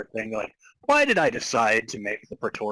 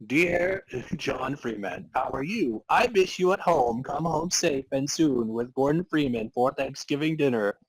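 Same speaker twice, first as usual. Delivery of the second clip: mom's letter; 3 semitones higher, 3 dB louder than usual. Acted. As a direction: read it like a doting mom's note. Reads mom's letter aloud.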